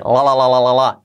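"la" repeated with a marked l; marked L drill. Shown as a demonstration. Teacher drilling the key letter, "la" repeated. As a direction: lean on each l of "la". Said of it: "y la L".

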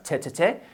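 "che, che, che" as short bursts of a strong t; very explosive consonant. Shown as a demonstration. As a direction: fire off each "che" as an explosive t sound. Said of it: "consonantes muy explosivas".

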